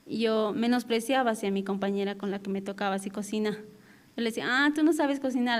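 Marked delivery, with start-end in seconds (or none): 4.5-5.6 a mild imitation of a condescending sneer, pitched higher; dismissive jab. To her kitchen partner, a lightly mocking belittling remark. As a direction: toss it off as a sly put-down. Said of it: "así con indirectas así".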